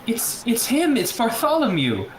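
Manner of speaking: high-pitched, halting protest; desperate insistence. Acted. Reed insists it is Bartholomew.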